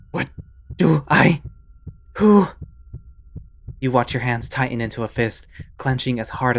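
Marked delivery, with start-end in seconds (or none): 0.1-2.5 loud, high, breathless questions; frightened and lost, loud; panicked confusion. Acted. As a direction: blurt it out in panic.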